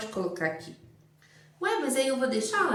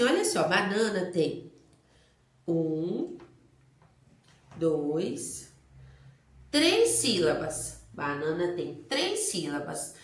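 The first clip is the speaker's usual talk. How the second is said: teacher explaining; 4 semitones lower, slower than usual. Shown as a demonstration. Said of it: "Então você fala assim".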